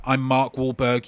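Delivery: lightly voiced Mark Wahlberg; Mark Wahlberg impression. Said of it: "It's a good written impression".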